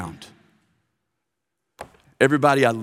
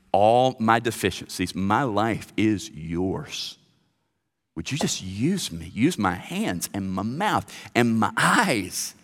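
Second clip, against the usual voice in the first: prayer; 3 semitones lower than usual. Shown as a demonstration. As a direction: pray it gently, hands open. Pastor voices a surrender prayer.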